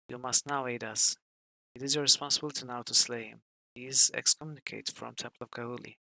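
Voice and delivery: lightly voiced story reading over the music; story narration. Player reading the lector scene aloud, story narration. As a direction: read the temple scene like a storybook.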